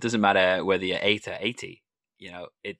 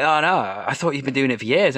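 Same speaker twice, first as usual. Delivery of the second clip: higher, louder imitation of astonishment; retold surprise; 4 semitones higher, 5 dB louder than usual. Improviser retelling a first-night exchange, mock surprise. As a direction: imitate someone taken aback.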